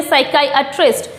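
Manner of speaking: "साइकियाट्रिस्ट" as sai-KAI-uh-trist in one go; "साइकियाट्रिस्ट" smoothly through all four syllables; joined-up pronunciation. Shown as a demonstration. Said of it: "एक साथ जो बोलेंगे".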